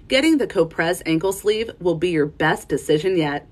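clean retake, relaxed ad read; casual voiceover. Shown as a demonstration. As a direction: redo the ad line clearly. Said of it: "I would do that line again".

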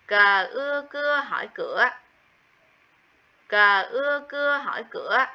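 đánh vần "Cờ ưa cưa hỏi cửa" rõ từng phần; tách "Cờ", "ưa", "cưa", rồi thêm dấu hỏi thành "cửa"; spelling out cửa. Shown as a demonstration. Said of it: "Tiếng cửa". (đánh vần mẫu "Cờ ưa cưa hỏi cửa")

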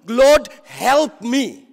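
loud, drawn-out retold plea; prophetic announcement. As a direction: slowly proclaim it, imitating the humbled woman. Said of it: "she made a prophetic announcement".

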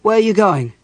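loud, high, harsh challenge; harsh demand. A narrator's reading. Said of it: "Caramon demanded harshly".

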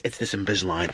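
speech thick from swollen tongue; lisping with aligners. Real, not acted. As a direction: talk around the aligners. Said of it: "I can't even speak normally anymore".

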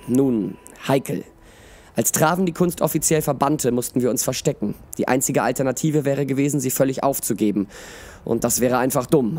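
expressive audiobook reading with voiced dialogue; measured storyteller, lively in the dialogue; story narration. A narrator's reading. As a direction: read it like a fantasy tale. Reads a story aloud.

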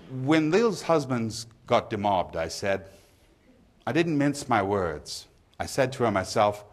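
lightly voiced pub gossip; poem reading. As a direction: read it as a pub storyteller, lightly acted. Reads the pub monologue from the poem.

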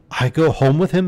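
high, alarmed disbelief; dismayed question. Acted. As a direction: recoil at going home with him. Lad dismayed at the offer.

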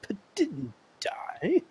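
slow breathy whisper. Acted. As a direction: whisper it back slowly. Whispered echo of the line.

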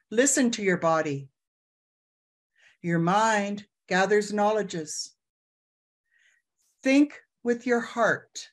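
unhurried guiding voice with long pauses between phrases; guided meditation. Acted. Elder guiding summit attendees through a closing breath, guided meditation. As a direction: lead the room through each breath.

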